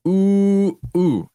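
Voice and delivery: high, delighted ooh; light up at a good question; excited ooh. Real, not acted. Host thrilled by a viewer question, high ooh.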